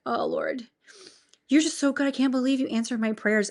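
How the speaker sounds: woman praying in awe at dawn; overjoyed prayer. Retold or imitated. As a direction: gush thanks to the Lord. Retold tearful prayer.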